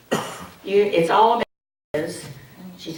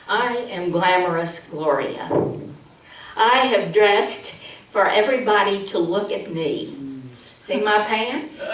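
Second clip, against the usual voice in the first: lightly voiced show-off; a hint of a vain diva; glamorous Gloria.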